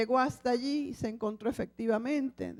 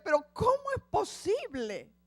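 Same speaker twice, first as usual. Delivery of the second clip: weeping; 6 semitones higher than usual. Acted. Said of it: "llorando decía".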